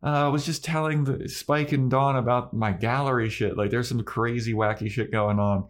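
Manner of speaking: high, breezy mom voice easing down; chatty mom. Acted. Joyce greeting Buffy at home, chatty and high. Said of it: "And Joyce is like".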